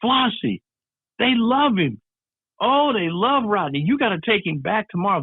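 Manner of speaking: high-pitched, gushing good news; excited agent. Retold or imitated. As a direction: imitate an agent thrilled for a client. Agent phones with great news.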